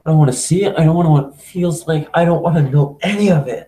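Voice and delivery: groaning, uneasy and tense; real squeamish dread. Real, not acted. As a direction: flinch away from the scene. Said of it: "one of my biggest fears".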